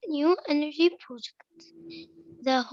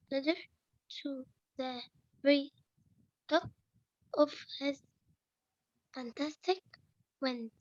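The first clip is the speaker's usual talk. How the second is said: bad mic, dropping out; cutting out; 9 dB quieter than usual. Real, not acted. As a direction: voice fading in and out. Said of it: "your voice is cutting in and out".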